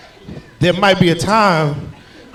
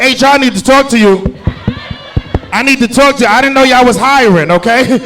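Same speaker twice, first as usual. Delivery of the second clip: 1 mock complaint; 6 semitones higher, 5 dB louder than usual. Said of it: "I was like".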